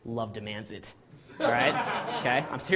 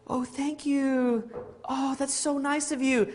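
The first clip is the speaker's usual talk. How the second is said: put-on high, slow, sweetly touched girl's voice; a hammed-up girl thanking him; gushing girl; 11 semitones higher, slower than usual. Girl receiving Valentine chocolates.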